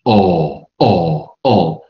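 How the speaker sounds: 哦 as an open back "aw"; firm, isolated back vowel on 哦; British "aw" sound. Shown as a demonstration. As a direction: demonstrate 哦 held pure, no "oo" glide. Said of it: "以及哦音".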